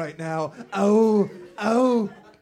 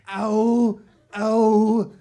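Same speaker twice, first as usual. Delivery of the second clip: pained ow; 5 semitones higher, 8 dB louder than usual. Acted. Batman hurt foot.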